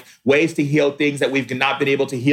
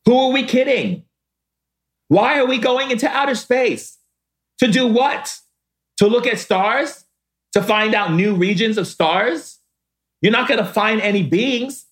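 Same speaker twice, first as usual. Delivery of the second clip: impassioned outcry; 8 semitones higher than usual. Real, not acted. Rhetorical outburst about space travel.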